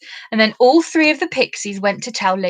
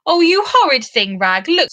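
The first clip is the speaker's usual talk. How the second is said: upset cry; 6 semitones higher, 5 dB louder than usual. A narrator's reading.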